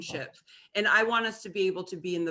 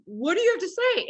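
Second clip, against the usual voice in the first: much higher, pushy question; mock demanding ex; 10 semitones higher, 3 dB louder than usual. Imitating her ex demanding a reply at the breakup. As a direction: poke at her like the cold ex.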